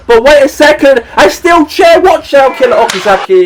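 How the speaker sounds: high, sudden alarmed call; excited. Acted. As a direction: yell out the chair attack. Steel chair ambush call.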